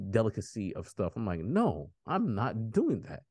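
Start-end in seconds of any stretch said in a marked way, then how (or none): 1.4-3.2 slow, drawn-out, higher-pitched no; slow mock refusal; retold firm refusal. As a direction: refuse the dish slowly and emphatically. Retold refusal of weird food.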